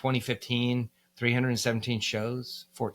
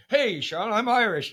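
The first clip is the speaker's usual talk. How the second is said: high, loud, goofy boast; mock clueless American; 11 semitones higher, 5 dB louder than usual. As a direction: ham up a naive tourist. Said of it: "go to Ireland and be like".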